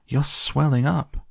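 high, swooping cry, rising at the end; alarmed scream. A narrator's reading. Mother sees Violet swelling, high alarmed scream. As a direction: shriek it in shock, without full volume. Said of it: "screamed Missus Beauregard".

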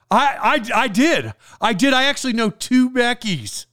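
mock an overeager guy delighted by small talk; over-friendly nerdy guy. Nerdy guy gushes to stranger Becky, over-friendly. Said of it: "why do people talk like this?".

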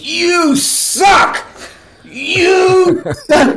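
high, loud jeering yell; bike messenger's taunt. Retold or imitated. Bike messenger jeering at a celebrity, high loud yell. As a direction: yell it out as you ride past. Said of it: "he goes".

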